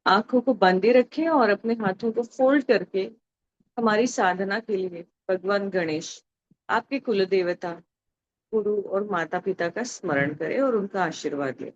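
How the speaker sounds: soft, unhurried prayerful instructions; guided meditation. Real, not acted. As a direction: ease the group gently out of meditation. Leads closing of meditation.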